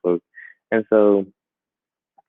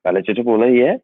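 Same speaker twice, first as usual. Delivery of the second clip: Liberian English; 2 semitones higher, 4 dB louder than usual. Shown as a demonstration. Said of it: "I can just switch it and be like".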